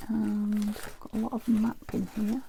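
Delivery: mumbled under the breath; mumbling. Real, not acted. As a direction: mumble it to yourself. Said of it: "Sorry if I'm mumbling".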